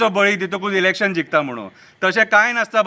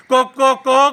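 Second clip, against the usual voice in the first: rhythmic imitation of a rooster's call; lightly voiced rooster refrain; crying rooster; 4 semitones higher, 3 dB louder, much slower than usual. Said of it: "कोंबो रडटा".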